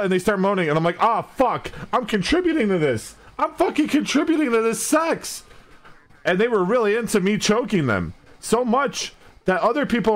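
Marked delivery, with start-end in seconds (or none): 1.0-5.4 rising panic. Retold or imitated. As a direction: pitch climbing in alarm. Alarmed realization retold.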